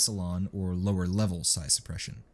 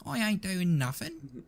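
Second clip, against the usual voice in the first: high, panicked denial; 11 semitones higher than usual. A narrator's reading. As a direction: scramble to deny it. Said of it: "Nubby's tone grew panicked".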